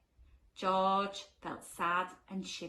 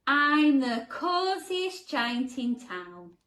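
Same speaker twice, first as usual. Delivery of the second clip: happy cry; 3 semitones higher, 6 dB louder, slower than usual. Acted. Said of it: "he cried".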